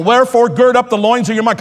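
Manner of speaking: "gird up the loins of your mind" declared with force; "Wherefore, gird up" hit firmly, nothing passive; emphatic, not casual. Retold or imitated. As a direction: drive "gird" home like a command. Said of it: "It was not casual".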